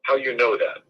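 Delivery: imitated Italian accent; light retold Italian-accented English. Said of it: "in his Italian accent".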